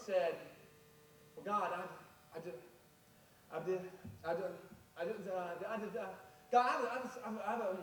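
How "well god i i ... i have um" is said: stammering. Acted. Moses stammers his excuse.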